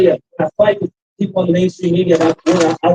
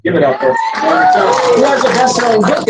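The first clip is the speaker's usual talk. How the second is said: high, rousing shout-out; applause call; 5 semitones higher than usual. Real, not acted. Speaker asking audience to applaud Melania, rousing call. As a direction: call the crowd to cheer.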